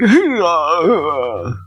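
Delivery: high, drawn-out mock wail; mock comedian noise. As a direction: imitate an over-the-top comic's falling cry. Imitating loud eighties stand-up comics.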